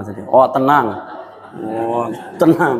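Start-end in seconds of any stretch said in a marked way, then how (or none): 0.3-0.9 a chuckle through the words; amused, light echo; laughing mock reply. Mocking a friend's empty promise. 1.6-2.7 drawn out, laughing, teasing; lazy sarcastic repeat through a laugh; slow mock echo. Mocking a friend's empty promise.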